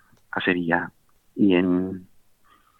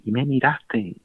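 crying; 5 semitones higher, slower than usual. Retold or imitated.

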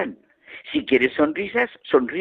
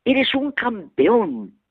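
slow, higher call to the mountains; shouted call; 7 semitones higher, much slower than usual. Retold or imitated. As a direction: shout praise out wide. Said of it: "De nuevo gritó".

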